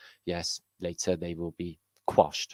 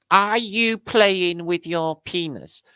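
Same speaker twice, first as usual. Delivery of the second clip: shocked slow; 13 semitones higher, 10 dB louder, slower than usual. Acted. Slow incredulous.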